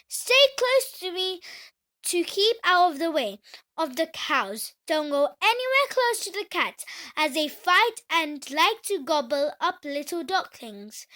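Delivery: loud, stern mother duck. Acted. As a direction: warn the ducklings sharply. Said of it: "This time she sounded stern".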